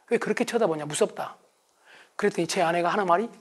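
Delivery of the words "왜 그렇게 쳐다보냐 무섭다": quietly. Retold or imitated. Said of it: "조용히 말을 해봤어요".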